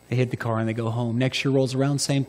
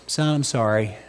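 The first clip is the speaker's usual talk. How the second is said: tender dad; 2 semitones lower than usual. Retold or imitated. Dad comforting son.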